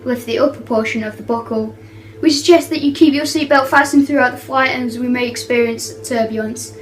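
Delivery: playful cabin crew announcement voice; flight attendant. Pretend. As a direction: read it like an airline PA announcement. Kid doing cabin announcements.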